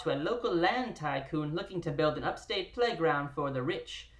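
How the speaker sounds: booming nineteen twenties radio narrator; old radio announcer. Pretend. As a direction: read it like an old-time radio host. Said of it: "in an annoying, old-timey radio voice".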